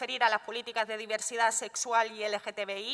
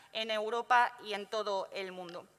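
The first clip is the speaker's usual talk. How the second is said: muffled speech through a mask; talking behind a face mask. Real, not acted. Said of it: "hablar con la mascarilla es, eh, complicado".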